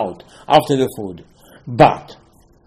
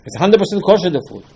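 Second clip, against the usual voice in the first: "It's hundred percent kosher" raised high in mock objection; higher mock protest; 5 semitones higher than usual. Shown as a demonstration. Rabbi voicing a congregant's objection, mock-indignant and high. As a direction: play the offended listener, pitched up.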